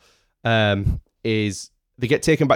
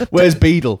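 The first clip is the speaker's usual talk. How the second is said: high loud Where's Beetle shouted; 5 semitones higher, 6 dB louder than usual. Pretend. Joke villain lines.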